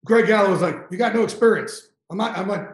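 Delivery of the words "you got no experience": higher-pitched retold dismissal; dismissive boss. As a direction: brush off a rookie, mildly acted. Retelling boss's dismissive rejection.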